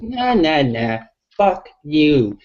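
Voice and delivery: imitating his own scornful reply; dismissive retort. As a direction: wave them off, scornful and slow.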